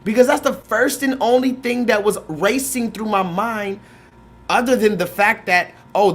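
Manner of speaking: normal talking voice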